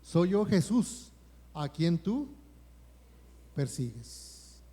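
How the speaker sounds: Jesus answering Saul, slow and solemn. Acted. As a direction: say it slowly, letting the last word sink. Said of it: "Y él dijo".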